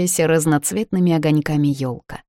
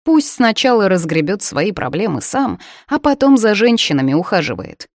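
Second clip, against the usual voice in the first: mother's advice. Retold or imitated. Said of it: "говорила она".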